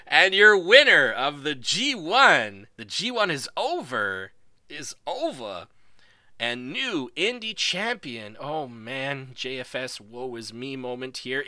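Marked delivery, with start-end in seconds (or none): 0.1-8.4 booming, slow ring announcer call. Acted. Streamer announces the new champion like a ring announcer. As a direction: announce the winner to the crowd.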